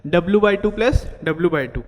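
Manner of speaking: formula read slowly, term by term; slow formula dictation. Shown as a demonstration. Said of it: "ठीक है, L x plus".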